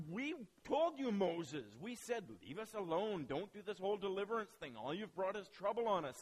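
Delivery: acted-out grumbling at a leader; mock complaint. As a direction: blame him in an exasperated mock protest. Acting the people blaming Moses.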